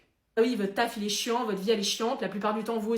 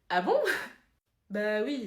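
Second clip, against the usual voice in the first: ordinary delivery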